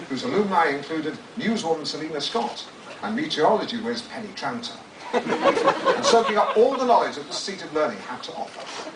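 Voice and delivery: grandly narrated, savouring each phrase; dramatic book reading. Acted. Author reading his memoir to an audience, pompously. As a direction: read it like a pompous audiobook. Reads second book extract.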